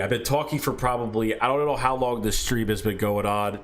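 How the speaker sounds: talking around a chew in the mouth; chewing tobacco with a dry throat. Real, not acted. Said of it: "I've got a chew in my mouth".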